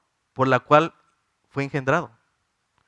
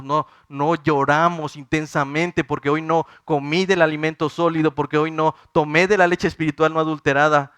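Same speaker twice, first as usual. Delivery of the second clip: building preaching; 3 dB louder than usual. Acted. Preacher builds to full force.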